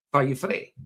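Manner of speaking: "far you frae" with r in "frae"; Dundee pronunciation. Shown as a demonstration. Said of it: "they would say".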